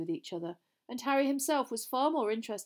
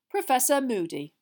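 name announced high and loud; bright announcement; 5 semitones higher, 7 dB louder than usual. A narrator's reading. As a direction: announce the teacher brightly to the hall. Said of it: "said Dumbledore brightly into the silence".

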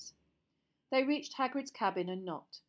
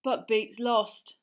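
faint and defeated; weak; 2 semitones higher, 9 dB louder, much slower than usual. Acted. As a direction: say it weakly, beaten. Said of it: "said Ron weakly".

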